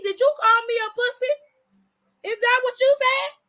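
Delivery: yelling in disbelief at an insult; outraged yelling. Retold or imitated. Host confronting a son who insulted his father, furious high shouting.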